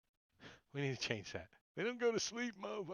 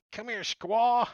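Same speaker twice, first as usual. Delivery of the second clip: high, louder creature snarl; angry sea lion voice; 8 semitones higher, 8 dB louder, slower than usual. Acted. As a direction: growl it as an angry beast.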